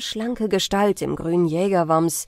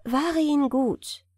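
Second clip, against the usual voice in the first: serious; 6 semitones higher, slower than usual. A narrator's reading. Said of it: "sprach die Wasserfrau ernst".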